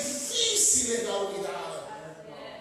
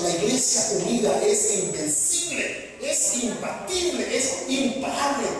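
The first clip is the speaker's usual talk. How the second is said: higher, slow emphatic proclamation; rising preaching; 5 semitones higher, slower than usual. Acted. Preacher proclaiming the united church to his pastors. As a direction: build it like a rally cry.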